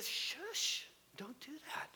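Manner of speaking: soft whispered shush; hushing whisper. Real, not acted. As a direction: quietly hush the noise. Hushing someone.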